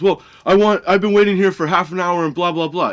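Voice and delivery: high, loud impatient complaint; retold yelling. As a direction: imitate an irate customer griping loudly. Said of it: "yelling at me".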